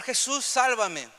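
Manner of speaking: slow, loud pleading cry; drawn-out loud plea to Jesús; desperate cry for help. Retold or imitated. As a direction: cry out to be saved, slowly and loudly. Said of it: "Pedro empezó a gritar".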